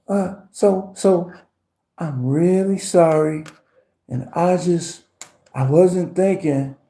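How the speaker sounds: hesitant begging, slowed down; mock stammering plea. Mimicking girlfriend begging back.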